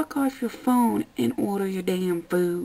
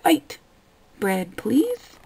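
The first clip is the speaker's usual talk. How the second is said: polite customer; 3 semitones higher, much slower than usual. Retold or imitated. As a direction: say it like a model customer. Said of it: "walk up to me and go".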